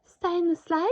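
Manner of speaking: lightly voiced stern Santa; Santa warning. A narrator's reading. Santa warning the dinosaur to stay put. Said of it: "warned Santa".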